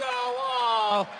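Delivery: ordinary talk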